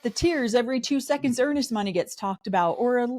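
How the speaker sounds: high-pitched sarcastic comeback; incredulous retort. Retold or imitated. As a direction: scoff at her hypocrisy. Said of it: "I'm like".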